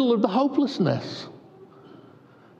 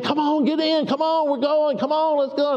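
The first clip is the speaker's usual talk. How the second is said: higher, eager urging; eager friends; 8 semitones higher than usual. Retold or imitated. Childhood friends urging him into the pool, eager and higher.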